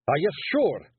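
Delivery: gruff little Scots warrior caught out; Feegle Rob. Acted. Rob defending himself to the lads, Scots pixie voice.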